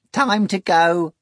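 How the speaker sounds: high, slow rattling voice. A narrator's reading. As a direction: rattle out the summons. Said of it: "A third rattling voice said".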